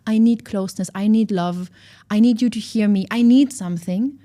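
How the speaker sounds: loud, insistent, pushing every need; a wounded inner child demanding attention; needy demanding. Pretend. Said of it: "a protector in us ... and is like".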